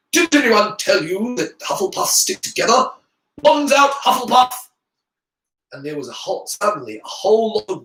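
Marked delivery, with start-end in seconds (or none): 0.1-4.5 high, rallying shout. A narrator's reading. Ernie calling Hufflepuffs to arms, shouting. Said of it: "shouted Ernie".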